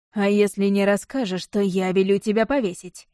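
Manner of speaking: a touch of menace, pressing with the voice; understated stern lord threatening the servant; pressing hard. Acted. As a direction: lean on him with a threat. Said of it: "надавил голосом Штефан".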